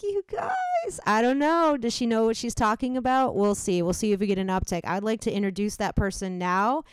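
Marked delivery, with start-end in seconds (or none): 0.0-3.4 high, breathy ditzy plea; ditzy girl voice. Shown as a demonstration. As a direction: squeal it like a helpless girl. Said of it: "if I was like".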